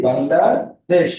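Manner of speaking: slow, stretched বাংলাদেশ; teacher answering the model question slowly; sounded out slowly. Shown as a demonstration. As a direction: draw out বাংলাদেশ syllable by syllable. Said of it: "আমার দেশের নাম কি?".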